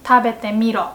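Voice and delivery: rough manly anime hero; rough masculine anime voice. Shown as a demonstration. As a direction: say it tough, like an anime guy. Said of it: "more masculine, rough".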